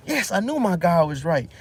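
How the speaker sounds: king crows in triumph, high and loud; a smug king who thinks his god won; gloating king. Retold or imitated. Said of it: "He said".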